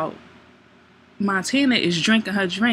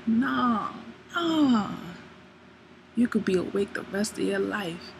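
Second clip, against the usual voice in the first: smooth sweet-talk; 5 dB quieter than usual. Retold or imitated. Man persuading her not to go home to sleep, smooth sweet-talk. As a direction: coax gently, with long pauses between phrases.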